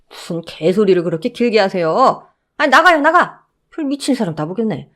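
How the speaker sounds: guard telling the mother-in-law to leave; lightly voiced annoyed guard. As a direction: shoo her out. Guard dismisses her.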